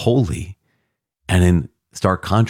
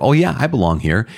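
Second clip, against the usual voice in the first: mock complacent; 6 semitones higher than usual. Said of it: "not just kind of one of those".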